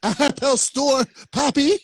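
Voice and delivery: slow "Apple store, Poppy" as she said it; imitating her. Host mimicking friend's "Apple store, Poppy", slow. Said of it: "she was saying it in Spanish".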